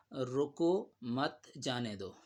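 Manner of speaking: slow, drawn-out "رکو مت جانے دو"; ambiguous phrasing. Shown as a demonstration. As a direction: stretch "رکو" and space out "مت جانے دو". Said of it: "کے تو سمجھا جا سکتا ہے".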